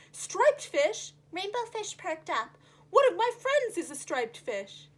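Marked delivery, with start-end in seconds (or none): 0.1-1.1 higher, louder eager question; hope suddenly rising; eager surprised fish; perked up. Acted. Rainbow Fish perks up. 2.9-4.9 put-on louder excited young fish; eager Rainbow Fish.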